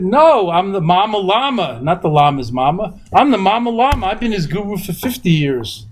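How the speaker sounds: high, lightly voiced proud mother; a hint of a proud Brooklyn mom; mother's voice. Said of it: "She said".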